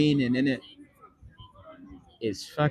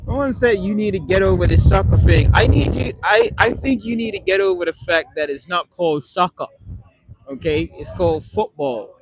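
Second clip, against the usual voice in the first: louder, higher, worked-up telling off; heated rant; 4 semitones higher, 4 dB louder than usual. Real, not acted. Streamer scolding American viewer over soccer, heated and loud. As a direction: jab at the chat over the word soccer.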